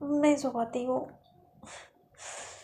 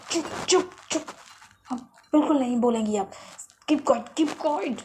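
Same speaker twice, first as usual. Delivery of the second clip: hushing. Retold or imitated. Hushing sister, hand on mouth.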